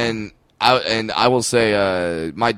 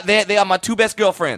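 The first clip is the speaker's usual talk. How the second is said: talk show guest voice; 8 semitones higher than usual. Acted. Guest voiced on Doctor Phil.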